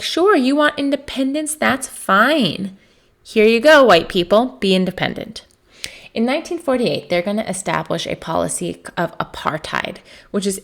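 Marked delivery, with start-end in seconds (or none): 0.0-5.5 higher, louder mock-generous handover, tossed off lightly; mock British breeziness. British granting white settlers independence, hammed-up generous voice. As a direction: hand it over like a careless favour. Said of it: "So the British will be like".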